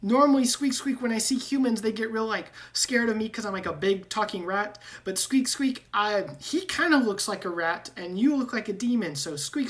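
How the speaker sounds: high, squeaky rat voice with squeaks; squeaky rat man. Acted. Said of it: "And he goes".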